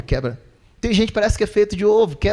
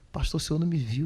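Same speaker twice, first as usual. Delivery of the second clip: mock complaint; 2 semitones lower, 8 dB quieter than usual. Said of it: "uma pessoa na rua".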